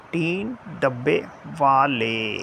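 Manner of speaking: टीन level, डब्बे dropped, वाले drawn out upwards; long rise on वाले. Shown as a demonstration. Teacher mimicking the dialogue's tune, long rising वाले. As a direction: stretch वाले slowly into a long climbing tone. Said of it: "एक बहुत लंबा सा rise आता है".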